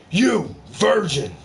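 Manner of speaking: lightly voiced mock vampire, slow on you virgin. Vlogger playing a vampire calling a virgin, lightly voiced. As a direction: lure the victim in a touch slowly.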